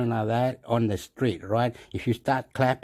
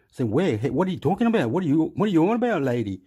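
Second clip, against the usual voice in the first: agitated; 4 semitones higher, 4 dB louder, faster than usual. Retold or imitated. Arguing with lady.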